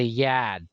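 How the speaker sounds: "yard" as broad "yahd", R dropped; Amity pronunciation. Retold or imitated. Correcting him on Amity speech, "yard" without its R. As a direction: drop the R in "yard", New England style. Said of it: "When in Amity, you say".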